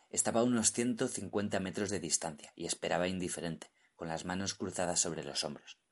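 ordinary delivery

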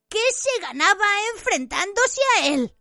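high, broken frightened whine; halting. A narrator's reading. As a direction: gasp it out pleading. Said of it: "dijo Pettigrew entrecortadamente".

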